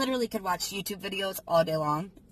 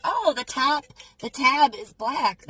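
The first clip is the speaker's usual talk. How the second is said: surprised; 5 semitones higher, 7 dB louder, slower than usual. Retold or imitated. Retold discovering the black tab.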